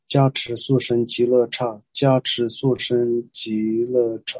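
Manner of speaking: measured verse, line by line; prayer recitation. Real, not acted. Teacher leading prayer to Amitabha and lineage, measured recitation. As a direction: recite in even seven-syllable phrases.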